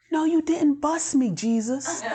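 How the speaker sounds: high, laughing "no you didn't"; half-laughing protest to Jesus; laughing disbelief. Real, not acted.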